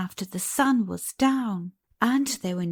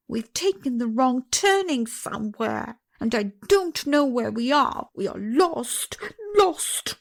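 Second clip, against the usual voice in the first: higher panicked nurse, lost rising high; terrified; 4 semitones higher than usual. Acted. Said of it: "The terror she was in".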